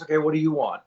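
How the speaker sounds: retold impatient bartender; mildly exasperated, pitched a bit up; frustrated. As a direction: imitate a server losing patience. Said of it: "like, frustrated".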